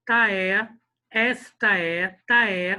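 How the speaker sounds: "Tá é" blended into one block; "Tá é" repeated slowly as one syllable; fused vowels. Shown as a demonstration. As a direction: run the end of "esta" straight into "é". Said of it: "é como se o E da sílaba seis".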